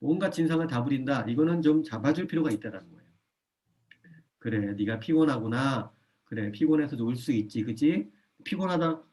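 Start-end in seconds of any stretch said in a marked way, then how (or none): 4.4-9.0 soothing parent. Shown as a demonstration. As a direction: gently acknowledge the tired child. Parent soothing a tired child.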